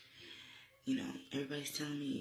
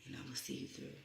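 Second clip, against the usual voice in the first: reassuring; 5 dB quieter than usual. Retold or imitated. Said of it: "she's telling me".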